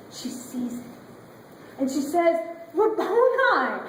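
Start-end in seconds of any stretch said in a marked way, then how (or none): 2.7-3.8 higher, louder, drawn-out cry of recognition; Mary recognizing Jesus, crying out higher and louder in joy; joyful cry. Acted. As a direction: burst out with sudden joy, slowly.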